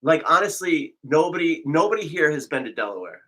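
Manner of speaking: accusing. Acted. Mock accusation.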